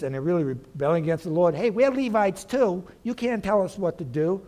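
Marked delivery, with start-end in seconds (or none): 1.5-4.4 a hint of angry rebels defying Moses; defiant rebel. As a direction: voice the rebels talking back to Moses. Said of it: "they rebel against Moses".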